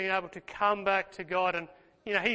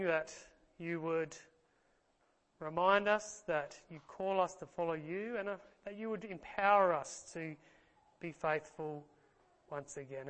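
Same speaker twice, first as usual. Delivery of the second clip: hushed heartfelt prayer to the Father; closing prayer. Acted.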